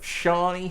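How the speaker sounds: Shani said slowly as one version; versions of a name. Shown as a demonstration. Host listing name versions to Jack, Shani sounded out slowly. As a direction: sound out Shani as the first variant. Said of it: "we've heard so many different, uh, versions".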